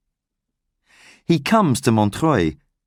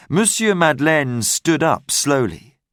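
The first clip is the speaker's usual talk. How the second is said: ordinary delivery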